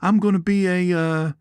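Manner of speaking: high, lightly voiced snake character; voicing the snake. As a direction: play the snake as a grateful showman. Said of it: "So he thought".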